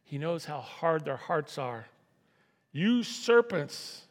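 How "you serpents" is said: high, loud, slow rebuke of the serpents; stern rebuke. Acted. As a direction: thunder it out like a prophet. Jesus rebukes the Pharisees.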